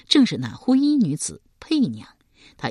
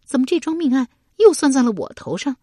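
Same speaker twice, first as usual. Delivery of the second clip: 皱眉不满; 8 semitones higher, 6 dB louder than usual. A narrator's reading. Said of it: "佩娘皱眉道".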